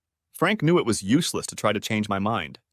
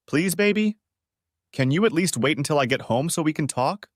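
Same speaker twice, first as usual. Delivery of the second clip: pleading, pitched higher on the first plea; desperate pleading; 5 semitones higher than usual. Acted. Wife begging her husband on the phone to wait, mildly desperate. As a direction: beg him to wait, a touch of desperation. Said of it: "I could hear the desperation in her voice".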